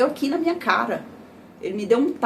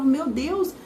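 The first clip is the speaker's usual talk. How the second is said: retold crying fit; 3 semitones higher than usual. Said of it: "eu dei crise de choro".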